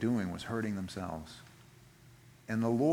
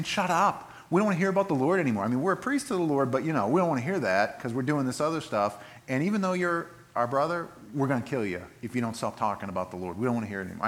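angry priests. Acted. Priests voiced angrily to Jeremiah.

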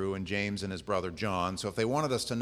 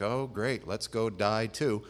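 dry sarcastic agreement, dragging the last words; deadpan mock willingness; slower than usual. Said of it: "He said very sarcastically".

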